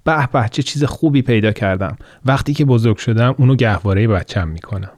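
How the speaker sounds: put-on naughty boy taunting the girl over her stolen shoe; mischievous boy. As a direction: tease like a naughty kid. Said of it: "با شیطنت گفت".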